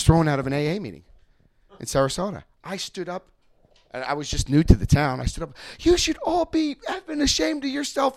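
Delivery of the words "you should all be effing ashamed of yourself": retold scream. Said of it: "I was screaming at the top of my lungs".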